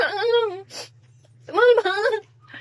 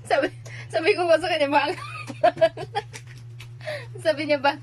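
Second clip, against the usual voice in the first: laughing. Real, not acted. Retelling while laughing.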